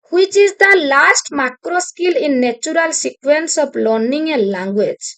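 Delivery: slow, deliberate reading of a test question; exam question read slowly. Acted. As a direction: read it out word by word for the class. Reads exam question to class. (ଧୀରେ ଧୀରେ ପ୍ରଶ୍ନ ପଢ଼ିବା)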